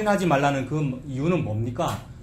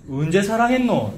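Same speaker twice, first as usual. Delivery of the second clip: higher-pitched, mock confrontational question; accusing challenge; 6 semitones higher, 4 dB louder than usual. Preacher voices people challenging God's love, accusing. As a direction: demand an answer, pitched up. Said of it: "이런 식으로 따지는".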